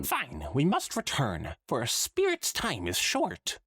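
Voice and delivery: the ghost hurrying back, pitched high; bad Trottingham accent. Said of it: "the bad Trottingham accent".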